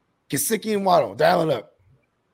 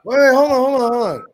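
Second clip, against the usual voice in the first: excited interruption; 4 semitones higher, 9 dB louder than usual. Real, not acted. Suddenly stops the others.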